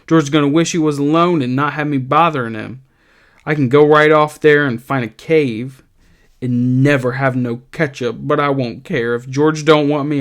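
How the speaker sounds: a big simple man talking himself into leaving; Lenny pleading. Acted. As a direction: read it as Lenny, hurt and sulky. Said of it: "and he says".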